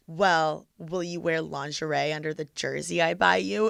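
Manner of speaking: low creepy voice. Retold or imitated. Retold creepy question.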